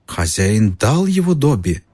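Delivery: a small creature in awe; house elf. A narrator's reading. Elf voice continues.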